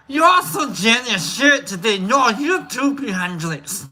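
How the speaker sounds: light put-on Scottish lilt; mock Scottish accent. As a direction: play a cheery Scot. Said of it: "paying attention more to my goddamn accent".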